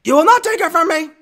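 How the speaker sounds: high, loud, acted defiance; very high angry yell; defiant shout. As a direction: shout it down in a rage. Acted Anakin and Obi-Wan quarrel.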